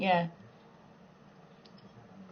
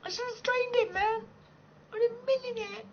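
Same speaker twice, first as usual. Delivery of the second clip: much higher, mock distressed squeak; squeaky mock voice; 14 semitones higher than usual. Mocking herself to viewers in a squeak. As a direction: squeal it like a guilty kid. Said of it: "I was like".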